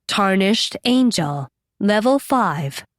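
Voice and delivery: slow, detached announcer voice; system voice. Acted. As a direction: read it like a game system message. Words fill Nancy's head.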